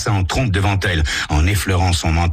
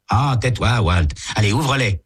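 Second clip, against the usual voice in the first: put-on higher, swaggering boy's voice; cocky teen Tommy; 7 semitones higher than usual. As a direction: brush off your buddy, sure of yourself.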